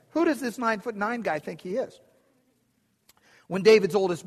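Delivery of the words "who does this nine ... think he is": put-on higher, incredulous boy's question; indignant boy. Shepherd boy David scoffing at Goliath, a touch higher. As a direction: ask it like a cocky teenager. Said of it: "this is a fifteen-year-old shepherd boy saying".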